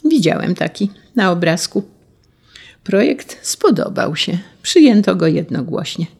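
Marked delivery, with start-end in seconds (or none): 0.1-1.8 put-on boy calling out. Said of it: "Franio zawołał".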